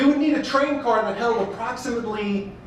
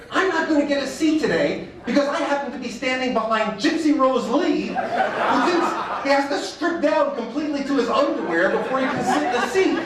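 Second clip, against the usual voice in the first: exasperated inner thought; 4 semitones higher than usual. Retold or imitated. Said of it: "I'm thinking to myself".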